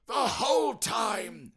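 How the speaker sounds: high, loud wailing spectre; loud anguished ghost cry. Acted. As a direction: moan it like a tormented ghost. Ghost voice in story.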